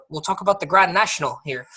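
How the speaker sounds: Grand National said the British way, clipped; British pronunciation. Shown as a demonstration. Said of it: "that's how they would say it".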